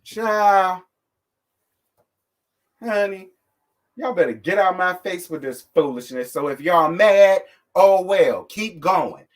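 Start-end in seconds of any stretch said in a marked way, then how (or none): 6.3-9.2 louder, slow defiant taunt. Real, not acted. Daring angry commenters, loud defiant shrug. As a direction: throw it at them, unbothered.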